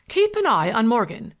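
lightly voiced scheming boss; bossy order. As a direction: issue it as a firm order. Pickering orders his hired man.

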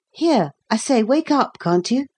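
rousing a sleeper. A narrator's reading. Man shaking a sleeping boy, urgent rousing. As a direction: urge a sleeper to wake.

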